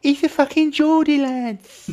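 high, loud crow to the lads; excited outburst. Real, not acted. Streamer tells lads the stranger's a Geordie, excited outburst. Mock outburst on learning he's from Newcastle.

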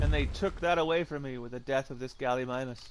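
mock tragic lament. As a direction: grieve like a soap opera villain. Mock tragic lament over dead dino.

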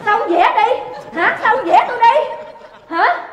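loud, high challenge; indignant demand. Acted. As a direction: press him hard for an answer. Wife demands to be painted.

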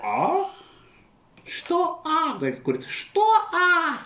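high, snippy hen voice; indignant hen. Acted. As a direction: snap back at a deaf master. Hen angry at deaf master.

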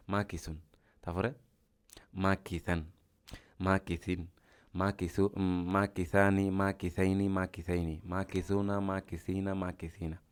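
measured drill through the word forms; paradigm recitation. Shown as a demonstration. Teacher shows students how to run a word through its forms, paradigm recitation. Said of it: "এটা দিয়ে টানবো".

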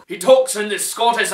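talking through laughter; amused, laugh still in the voice; real laughing. Real, not acted. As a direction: start the line straight out of a laugh. Cracking up over actor's accent.

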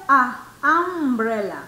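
a loud "Ah" alone, then "umbrella"; single out "Ah" before saying "umbrella"; isolated vowel sound. Shown as a demonstration. Teacher asks if students hear the sound, isolated "Ah". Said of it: "¿Escuchan el sonido?".

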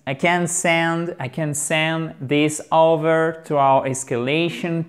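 slow, careful model read of the customer service line. Shown as a demonstration. Teacher leads the class in repeating, slow and careful. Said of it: "Allez, on répète. Tous en chœur".

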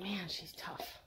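very soft, low mock aside; hushed imitation of a dog thinking; pretend dog's thought. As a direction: voice the dog's private grumble, hushed.

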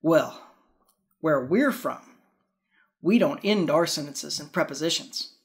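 lightly voiced prim, proper lady; a hint of a stiff, proper non-Southern lady. Host voicing the snooty lady correcting the belle, lightly done. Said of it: "the prim, proper, not Southern lady".

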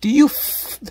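loud, confrontational outburst; aggressive yelling. Acted. Unhinged guest confronting her interviewer, angry yelling. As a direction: yell a challenge, stretching the last question.

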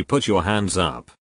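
slow demand. Acted. Burglar demands surrender.

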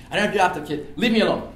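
mild imitated irritation; irritated denial. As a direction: push him away with the words. Thief denies again, irritated.

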